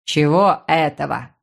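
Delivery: low, slow baffled voice; puzzled brother. Acted. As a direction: feign confusion, low. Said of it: "не понял собеседник".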